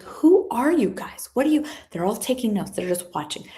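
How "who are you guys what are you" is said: high, baffled question; confused. Retold or imitated. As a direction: ask it high and puzzled, like nobody explained anything. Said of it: "We're like".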